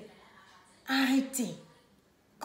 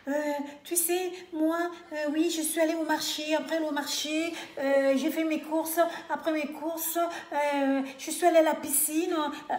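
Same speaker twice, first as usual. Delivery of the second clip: mock white French accent, a little higher, with dragged euhs; imitated white French accent; 3 semitones higher than usual. Mocking people back home recounting market and pool, imitated white French accent. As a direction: put on an affected, hesitating French accent. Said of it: "ils veulent imiter l'accent des Blancs".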